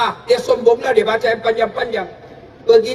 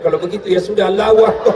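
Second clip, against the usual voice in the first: put-on young man shouting; 3 semitones lower, 4 dB louder, faster than usual. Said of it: "ada anak muda berteriak".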